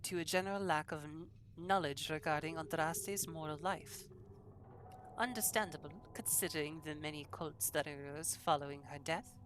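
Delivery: shaky attempt at a French accent; French accent slipping towards German; terrible French accent. Player reads lore scholar's lines, terrible French accent. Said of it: "can I do a very terrible French accent".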